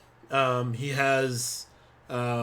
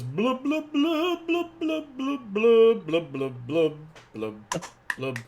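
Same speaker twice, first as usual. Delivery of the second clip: shouting underwater; 9 semitones higher, slower than usual. Pretend. Fish toy mouthing sounds.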